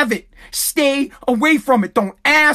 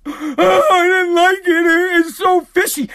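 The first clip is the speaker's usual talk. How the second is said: high, hammed-up whining from Kaylee's mom; mock her whimpering about fishy pizza; whiny mock complaint; 5 semitones higher, slower than usual. Imitating Kaylee's mom whining about the fishy pizza. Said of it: "she's like".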